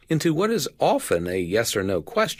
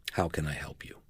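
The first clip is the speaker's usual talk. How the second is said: gentle offer of help; 5 semitones lower, 8 dB quieter, faster than usual. Shown as a demonstration. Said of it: "never forget the most well-phrased".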